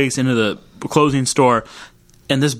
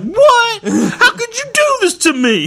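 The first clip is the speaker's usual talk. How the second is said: high, squealing outrage; betrayed jumper; slower than usual. Retold or imitated. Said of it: "And the guy's like".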